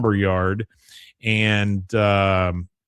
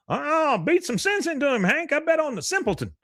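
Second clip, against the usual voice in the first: much higher, gleeful jeer; mock Buck cheering. Boss cheers on the fight he bet on, high and gleeful. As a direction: egg them on like a gambler.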